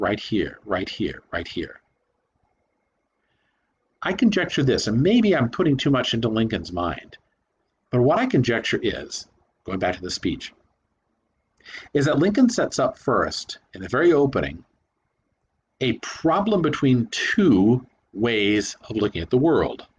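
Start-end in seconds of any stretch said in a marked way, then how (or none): 0.0-1.8 right stressed each time in right here, fading softer. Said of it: "he's repeating that word".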